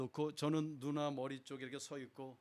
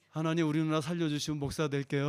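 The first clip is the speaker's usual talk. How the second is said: much louder, pleading cry to God; desperate prayer; 2 semitones higher, 10 dB louder than usual. Retold or imitated. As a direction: bargain with God at full voice.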